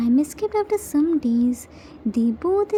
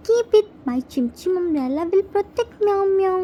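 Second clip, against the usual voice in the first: shouting back; 2 semitones higher than usual. Acted. Jimmy calls back while running away, raised voice. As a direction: shout the first words back as he runs. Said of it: "Jimmy shouts back".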